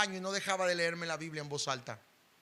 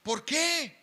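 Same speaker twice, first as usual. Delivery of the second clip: rising, louder anguished cries; shouting why; 8 semitones higher, 5 dB louder, much slower than usual. Retold or imitated. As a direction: yell each why higher at the sky. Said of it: "yo le gritaba a Dios". (gritos angustiados a Dios)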